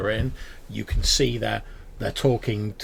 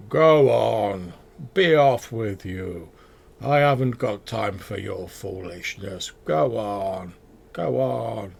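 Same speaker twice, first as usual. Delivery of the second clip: a lightly voiced slow old dwarf shooing goblins; low-voiced moss dwarf; 5 dB louder, slower than usual. Dwarf druid shooing goblins from his pigs, mild low voice. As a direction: shoo them off, unhurried and gruff. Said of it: "in a very sort of low voice".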